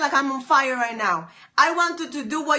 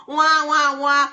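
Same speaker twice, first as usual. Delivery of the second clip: mock whining; slower than usual. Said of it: "Quit your whining".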